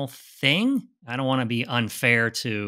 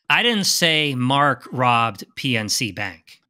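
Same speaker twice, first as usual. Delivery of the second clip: DIDN'T punched, slow and deliberate; stress on didn't; 3 dB louder, slower than usual. Shown as a demonstration. Teaching the stress exercise, hitting didn't. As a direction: lean hard on "didn't" and take it slowly. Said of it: "put emphasis on each word".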